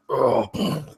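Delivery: short collapsing groan. Acted. Sleep-spelled barbarian crawls, then falls face first, groaning. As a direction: give a small groan as he keels over. Acting out a man keeling over.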